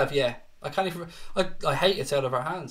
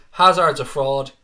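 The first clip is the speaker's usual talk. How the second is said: blunt put-down; 8 dB louder than usual. Real, not acted. Banter jab at a rival fan.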